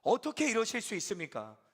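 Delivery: loud, high, pleading complaint to God; protesting to God. Retold or imitated. Pastor voicing his hurt prayer, loud protest. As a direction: press God with a hurt demand. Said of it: "속상한 마음이 하나님께 막 따지듯 묻는 거죠".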